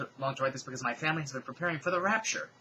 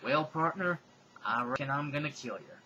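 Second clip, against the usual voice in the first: put-on Southern accent; 2 semitones higher than usual. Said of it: "her southern accent".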